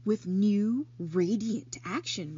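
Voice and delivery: slow, thoughtful repeat of the label; slowly, musing. Acted. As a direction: turn the words over slowly in your mind. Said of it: "repeated Charlotte slowly".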